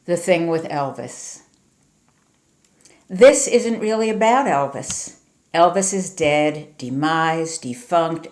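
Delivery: emphatic, rhythmic poem recital; poetry reading. Acted. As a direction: read it as verse, punching key words. Reads New Jersey poem aloud.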